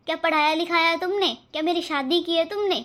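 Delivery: angry retort. Acted. Sister-in-law fights back.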